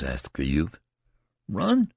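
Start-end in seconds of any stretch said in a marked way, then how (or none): 1.5-1.9 high, outraged "Run?"; incredulous. Acted. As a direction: toss the word back in disbelief. Incredulous at being doubted.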